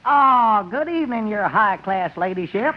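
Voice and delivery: hammed-up fake English accent, jumping high; a country man faking an upper-class Brit; mock British butler. Greeting the lady as a fake British butler. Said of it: "your man has a rather peculiar accent".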